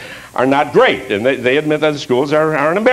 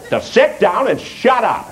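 mock shout; 5 semitones higher than usual. Comedian ends his Voltaire misquote with a mock shout. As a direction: bark the twist at the crowd. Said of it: "He said".

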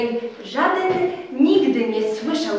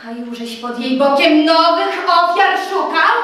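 Telimena furious. Acted. Telimena accuses Tadeusz of betrayal, furious. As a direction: lash out, bitter and wounded.

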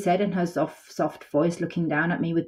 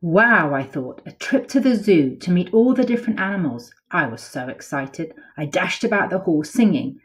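lively picture-book read-aloud; storybook voice for kids; reading to children. A narrator's reading. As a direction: tell it like a bedtime story to little ones.

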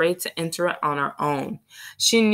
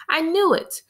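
triumphant, much higher hushed cry; loud crowing whisper; 12 semitones higher, 3 dB louder than usual. A narrator's reading. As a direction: crow it out under her breath. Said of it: "Early crowed in a loud whisper".

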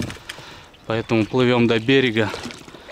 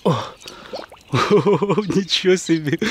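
amazed; 4 semitones higher, slower than usual. Real, not acted. Amazed at the fish.

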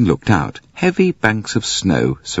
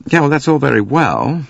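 restless; 8 semitones higher than usual. Acted. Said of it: "said McQueen restlessly".

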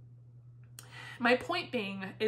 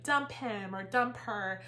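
mocking friend's advice; slower than usual. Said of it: "Really don't like that attitude".

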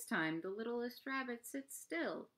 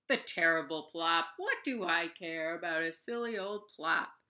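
yawning; 3 semitones lower, 3 dB louder than usual. Acted. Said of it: "yawns the big brown bear".

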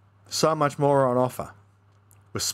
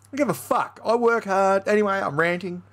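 laughing; 6 semitones higher than usual. Real, not acted. Catches himself ranting.

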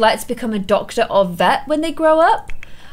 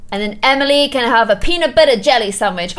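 normal talking voice

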